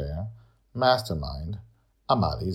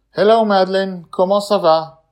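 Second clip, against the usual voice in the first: higher, louder friendly greeting; a touch of French charm; lightly voiced Amali; 14 semitones higher, 12 dB louder than usual.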